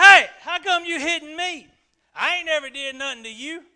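high, loud, fast-talking cartoon donkey; full Eddie Murphy-style Donkey bit; Donkey complaining to Balaam, high and loud; Shrek's Donkey. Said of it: "that voice, like on Shrek".

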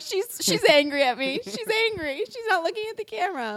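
high, fast fretting voice; anxious pet-owner voice. Retold or imitated. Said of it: "I'm like".

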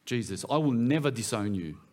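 mildly emphatic vow, each phrase set apart; emphatic insistence. Acted. Peter swears loyalty to Jesus, emphatically insistent. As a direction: insist on it, with a firm final word. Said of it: "he insisted emphatically".

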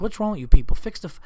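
fed-up yell, cut off mid-curse; exasperated outburst. Retold or imitated. Comic snapping at useless hotel staff, exasperated.

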